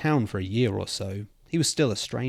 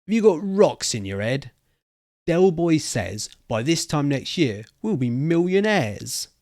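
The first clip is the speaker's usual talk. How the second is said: scoffing; 5 semitones higher, 4 dB louder than usual. Acted. Jake scoffs at the story.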